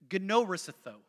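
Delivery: "gnorisitho" as guh-no-ree-SEE-tho, in an American accent; pronounced for listeners. Shown as a demonstration. Preacher showing the congregation a Greek word, "gnorisitho" sounded out. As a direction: say "gnorisitho" deliberately, with a hard g before the n. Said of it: "I'm gonna pronounce it wrong".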